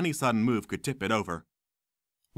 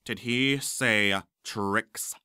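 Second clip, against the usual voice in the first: slow sneering professor; much slower than usual. Acted. Smape outraged at the word.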